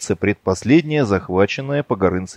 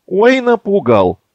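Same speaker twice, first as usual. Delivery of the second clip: mocking; 10 semitones higher, 4 dB louder, slower than usual. Mocking reply to threat.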